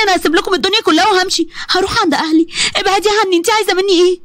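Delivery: mild frightened pleading; frightened wife. Acted. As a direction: push her away in fear. Maryam frightened pushing her away.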